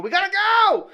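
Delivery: high, frantic hurry-up yell, mock version. Father hurrying family to church, mock frantic yell. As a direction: chase the family out the door, half laughing. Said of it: "running around screaming and yelling".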